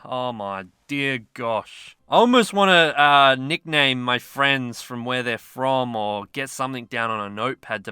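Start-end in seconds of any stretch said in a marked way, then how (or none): 0.1-2.0 overwhelmed. Real, not acted. Overwhelmed by friend list.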